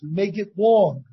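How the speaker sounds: slow, stretched "make it long"; slowly, showing the length in the voice; drawn out. Shown as a demonstration. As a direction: stretch the words out as you say them.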